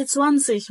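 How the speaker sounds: "تسوانسيش" with a W glide after ts; V wrongly as W. Shown as a demonstration. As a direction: say "تسوانسيش" with W replacing V. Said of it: "حرف ال V ما بقولش W".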